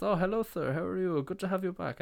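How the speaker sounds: high, affected welcome; put-on high, obliging voice; fawning restaurant host. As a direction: welcome a prized regular in mock-posh tones. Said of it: "He goes".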